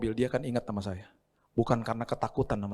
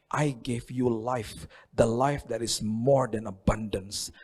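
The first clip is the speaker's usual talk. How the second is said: very slow, measured and grand; solemn Jesus voice; much slower than usual. Acted. Jesus declaring abundant life to believers, slow and solemn. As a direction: proclaim it slowly as Jesus.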